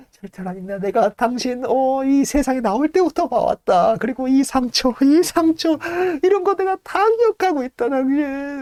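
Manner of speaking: rising, high emotional pleading; insist, voice climbing with emotion; old servant overcome recognizing master; fervent insistence. Acted.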